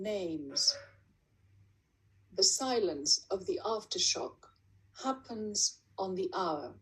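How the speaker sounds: measured poem reading, long pauses between lines; poetry recital. Acted. Poet reading a numbered war poem to an audience, measured recital. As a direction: recite it deliberately, each line falling to a close.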